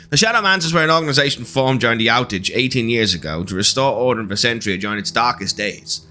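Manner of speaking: radio announcer. Acted. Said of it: "nineteen fifties radio announcer voice".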